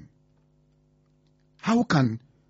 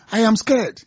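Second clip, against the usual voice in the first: higher-pitched, insistent alarm; alarmed refrain; 4 semitones higher than usual. Real, not acted. Radio host reacting to threats against voters, rising alarm. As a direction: lift the pitch as the worry mounts.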